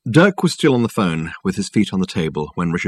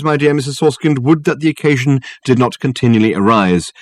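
pompous, persuasive detective talking up his case; lofty and smooth, selling it hard; raised, orotund appeal; Dirk's grand phone voice; 3 semitones higher than usual. Acted. Dirk reads the bill.

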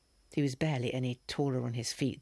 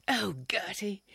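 whispered; 7 semitones higher, slower than usual. Acted. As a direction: breathe her name after the scare. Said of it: "he whispered after a moment".

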